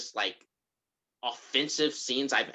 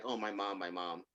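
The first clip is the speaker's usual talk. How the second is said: low, very soft voice; retold hurt murmur; 5 semitones lower, 12 dB quieter than usual. Fourteen-year-old hurt by his mom, retold softly and low. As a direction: gently imitate an upset child. Voicing the hurt, hyperventilating son.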